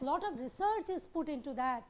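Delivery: lot of research is put into that, very slowly; slow emphatic explanation. Shown as a demonstration. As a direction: lay it out slowly so it sinks in. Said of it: "teacher stressing a point".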